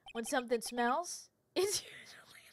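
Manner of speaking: laughing through the line, whispering into giggles; can't keep a straight face; breaking up. Shown as a demonstration. Phoenix recites the school saying, cracking up. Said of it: "Sorry, I have to say this seriously".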